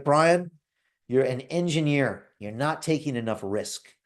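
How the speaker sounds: mild mock yell of a pushy mentor, slowing down; retold mentor's yell. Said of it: "he used to yell at me".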